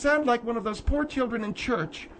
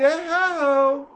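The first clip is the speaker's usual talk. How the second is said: mock child noise; 3 semitones higher, 5 dB louder than usual. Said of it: "you hear them in the back going".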